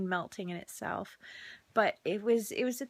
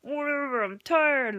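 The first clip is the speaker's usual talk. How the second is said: fed-up; 5 semitones higher, 7 dB louder than usual. Retold or imitated. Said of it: "I'm like".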